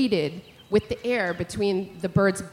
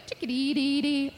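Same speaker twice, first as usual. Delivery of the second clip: chickadee call; 4 semitones higher, 4 dB quieter than usual. Retold or imitated. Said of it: "just be like".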